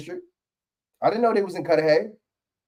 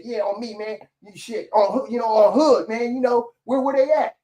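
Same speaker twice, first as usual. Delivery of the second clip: mock hood-talk mayor, pitched higher; imitating hood slang; 7 semitones higher than usual. Imagined black mayor talking hood slang, mock-voiced and higher. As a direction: play a vice mayor talking street, half-joking. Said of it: "a black woman mayor ... said".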